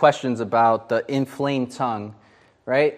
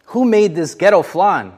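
tactless wisecrack; 4 semitones higher, 5 dB louder than usual. Retold or imitated. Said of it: "I opened the refrigerator and I said".

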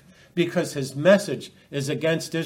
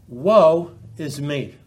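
lament; 5 dB louder, much slower than usual. Acted. Opening lament, slow and heavy.

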